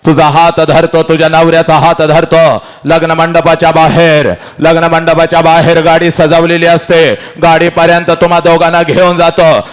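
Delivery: forceful, sustained storytelling; impassioned oration. Acted. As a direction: push each phrase out to the crowd.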